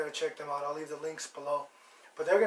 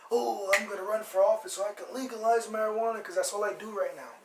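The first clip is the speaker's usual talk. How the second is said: lightly voiced eager teenager, a bit higher; mock a teenager announcing big plans, pitched up; teenage would-be politician; 4 semitones higher, 4 dB louder than usual. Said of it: "when they were, like, teenagers".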